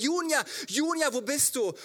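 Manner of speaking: a hint of a worried call, not a real scream; retold calling. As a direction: call the name as if searching, held back. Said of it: "zu schreien".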